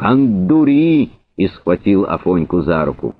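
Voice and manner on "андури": high, slow, drawn-out cry; shout from behind. A narrator's reading. Driver intervening as a pistol is cocked, shouting. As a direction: cry out high, stretching the vowels. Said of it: "закричал сзади Грищук".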